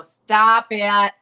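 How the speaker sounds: loud sharp "Stop it" aimed at an unseen ghost; retold sharp scold. Retelling Mitzi scolding the ghost over the music, loud sharp scold. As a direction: snap it out like a boss scolding a prankster.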